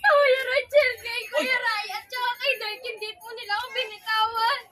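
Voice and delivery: laughing and crying. Real, not acted. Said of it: "Tawa, iyak?".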